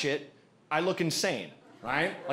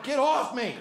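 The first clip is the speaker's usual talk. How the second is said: mild mock indignation; mock protest; 9 semitones higher than usual. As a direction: shove her off with a squeaky protest. Pushing woman off him.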